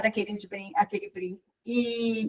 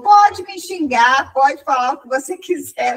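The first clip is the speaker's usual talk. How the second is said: imploring invitation; 4 dB louder than usual. Retold or imitated. Man who lost the ring inviting insults, imploring. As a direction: stretch it out, offering yourself for blame.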